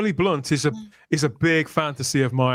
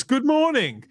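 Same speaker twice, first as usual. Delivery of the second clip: acted soap line; 8 semitones higher, slower than usual. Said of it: "He says".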